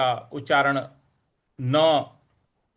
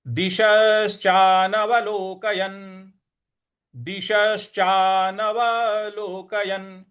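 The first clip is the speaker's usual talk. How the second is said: slow careful Sanskrit; slow recitation; 3 semitones higher, much slower than usual. Shown as a demonstration. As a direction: read it out slowly. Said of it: "इसके बाद हो जाएगा". (धीमा पाठ)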